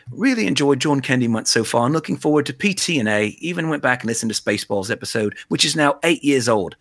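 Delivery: loosely attempted Scouse; bad Liverpool accent. Back to reading UK pal's email, rough Liverpool accent. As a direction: read it in a shaky-quality Liverpudlian accent. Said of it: "my bad accent was imitating".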